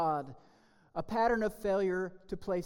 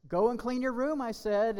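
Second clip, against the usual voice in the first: higher, louder mock parent order; exasperated parent; 5 semitones higher, 5 dB louder than usual. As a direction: play the fed-up parent. Parent repeating order, voiced.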